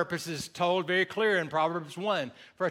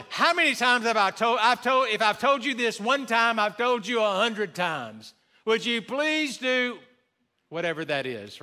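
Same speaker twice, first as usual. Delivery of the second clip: mock exasperated mom; 3 semitones higher than usual. Pastor voicing moms nagging their kids, mock exasperation. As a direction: imitate a fed-up mom repeating herself. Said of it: "parents know that".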